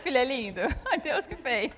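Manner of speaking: quoting through giggles; laughing while quoting. Retold or imitated. (citando entre risos)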